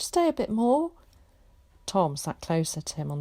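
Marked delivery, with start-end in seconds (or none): 0.0-0.9 put-on high, louder boy's plea; cling on and beg; pleading boy. A narrator's reading. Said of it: "he urged".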